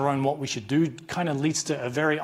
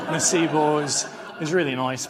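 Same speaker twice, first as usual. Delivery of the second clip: Jeremy's velvet voice. Retold or imitated. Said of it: "I put on Jeremy's voice".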